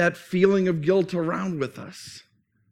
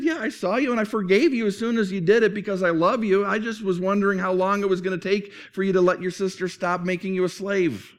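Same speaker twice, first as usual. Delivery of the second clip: loving grandma; 2 semitones higher than usual. Acted. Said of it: "She said".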